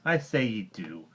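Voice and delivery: a mild angry retort; angrily. Acted. Mowgli retorts to Bagheera, mildly angry. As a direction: snap back, lightly. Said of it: "shooting out his forefinger angrily".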